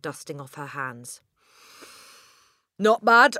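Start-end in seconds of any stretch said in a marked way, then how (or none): 2.8-3.4 a hint of loud, smug satisfaction; smug approval. Headmistress admires her own throw, smugly. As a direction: sound pleased with herself. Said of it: "she said".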